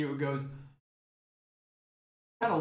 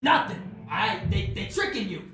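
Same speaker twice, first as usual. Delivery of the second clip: angry boss; 4 semitones higher than usual. Acted. Boss scolds ogre being bribed.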